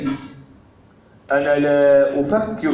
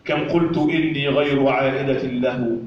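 poetry recitation. Acted. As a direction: recite the poem line by line with pauses. (إلقاء شعري متأنٍّ)

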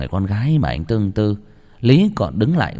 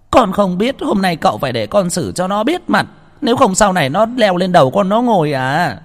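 much higher, tearful insistent whine; whining daughter; 9 semitones higher, 3 dB louder than usual. A narrator's reading. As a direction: demand revenge through tears. Huệ khóc đòi. (con gái khóc lóc đòi cho bằng được)

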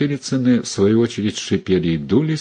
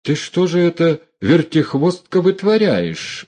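high, indignant scolding; angry rebuke; 9 semitones higher than usual. A narrator's reading. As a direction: dress her down. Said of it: "ополчился Михаил Елизарович".

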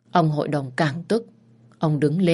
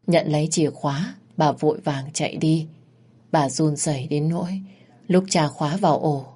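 ordinary delivery

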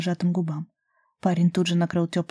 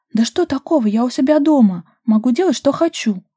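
higher, louder, defiant; stubborn retort; 6 semitones higher, 6 dB louder than usual. A narrator's reading. Daria defying Ruslan about her own home, stubborn. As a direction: dig in and argue back. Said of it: "упрямо возразила девушка".

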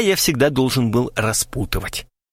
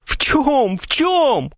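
much higher, pleading near-tears; almost sob the question; near sobbing; 13 semitones higher, much slower than usual. A narrator's reading. Krasilnikov nearly sobbing, pleading for an answer. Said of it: "чуть не рыдал Красильников".

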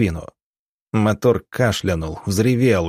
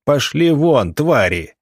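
higher-pitched acted yell; full-throated yell; 5 semitones higher, 3 dB louder than usual. A narrator's reading. Doctor throwing a stone at wolves, yelling. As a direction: drive them off with a raised voice. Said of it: "во всё горло заорал доктор".

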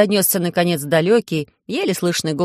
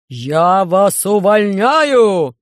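гневный крик, громче и очень медленно; в ярости выкрикни приговор; кричит; 6 dB louder, much slower than usual. Acted. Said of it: "закричал Громозека". (Громозека кричит на диспетчера в микрофон)

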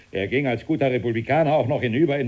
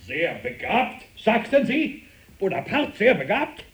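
agitated; 5 semitones higher than usual. Acted. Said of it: "Warum so aufgeregt".

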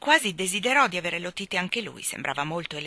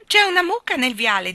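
high, loud announcement; excited calling out; 8 semitones higher, 10 dB louder than usual. A narrator's reading. Michael telling Mary Poppins about the cow, excited call. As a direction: shout the astonishing news.

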